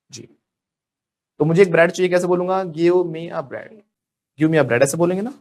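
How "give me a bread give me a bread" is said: slow wrong example. Shown as a demonstration. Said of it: "You are mistaken".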